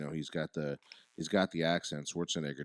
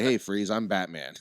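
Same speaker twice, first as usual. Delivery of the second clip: nonchalant straight voice; 7 dB louder than usual. Retold or imitated. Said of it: "Straight voice, no changing whatsoever".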